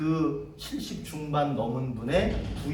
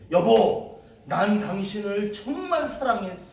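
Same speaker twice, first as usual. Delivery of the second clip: a louder, raised call of love, retold; imitating a grieving husband calling out; retold loud cry; 5 semitones higher, 3 dB louder than usual. Old widower crying out to his late wife, retold loudly. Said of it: "큰 소리로 얘기를 해".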